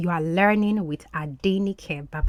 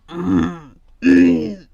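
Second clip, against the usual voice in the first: imitating the dog; 6 dB louder than usual. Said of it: "the way it would make it sound".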